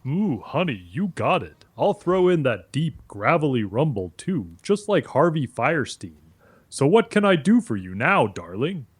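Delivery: campy voice with a gravelly rumble; Harvey Fierstein. Pretend. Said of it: "do his gravelly voice".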